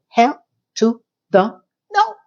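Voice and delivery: slow, sassy hell no; sassy refusal. Retold or imitated. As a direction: draw it out with sass. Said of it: "I was like".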